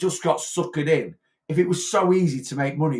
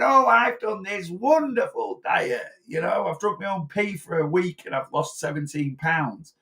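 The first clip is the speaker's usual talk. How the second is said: lightly mocking high gushing boaster, slowed; gossipy colleague showing off her diet, lightly mocked; smug dieter boasting; 4 semitones higher than usual. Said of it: "and they're there going".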